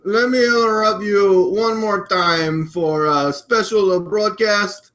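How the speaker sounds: lightly put-on Russian accent; amateur impersonation with a Russian accent; Vladimir Putin. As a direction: play a Russian president presenting himself. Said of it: "I'm Vladimir Putin".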